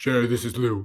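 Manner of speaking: oversized giant's voice. Retelling a phone call that opened a conversation: Lou Ferrigno booming voice. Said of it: "this big, giant, booming voice".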